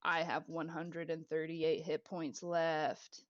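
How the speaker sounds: a hint of a rumbling treant, slow and measured. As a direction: speak slowly and low as a lightly voiced ancient tree. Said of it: "that emanating, rumbling voice come back".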